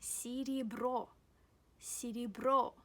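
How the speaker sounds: "серебро" said as si-ri-BRO; both unstressed E's in "серебро" as short i, weight on "бро"; careful teaching "серебро" with ee sounds before the loud O. Shown as a demonstration. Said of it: "they are pronounced".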